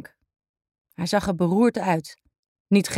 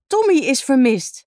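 voice cracking; 6 semitones higher, 4 dB louder than usual. A narrator's reading. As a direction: voice breaking, high and louder. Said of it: "Haar stem sloeg over".

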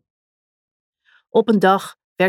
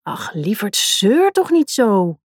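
dismissive; slower than usual. Acted. King brushes off queen.

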